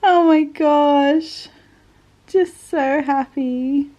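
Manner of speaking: very slow, drawn-out teary delight; real happy tears, starting loud; emotional, so happy. Real, not acted. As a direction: stretch it out, overcome with joy. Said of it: "I don't know why I'm getting emotional".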